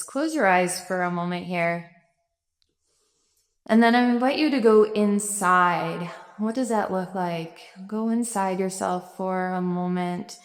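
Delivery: calm, gently eased meditation voice; guided meditation. Real, not acted. Instructor invites listeners to close their eyes and go inside, guided meditation. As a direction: guide them inward, with room between phrases.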